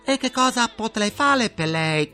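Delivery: put-on sing-song Chinese-accented phone operator. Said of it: "vi risponderanno con questo sottofondo musicale".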